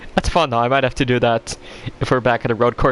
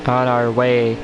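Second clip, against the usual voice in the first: IMSA commentator; 12 semitones lower, 5 dB quieter than usual. Pretend. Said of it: "I'm speaking like a imsa commentator".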